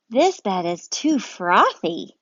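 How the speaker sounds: slow, lightly voiced bear; a bear poking a fluffy bed; drawn-out mild complaint. Bear voiced in read-aloud story.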